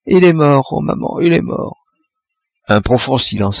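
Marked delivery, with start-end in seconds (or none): 0.1-1.8 put-on high, frightened child's cry; a panicked little girl fleeing the bed; terrified child. A narrator's reading. Girl fleeing the dead man, crying out in high terror. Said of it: "prise d'une peur folle".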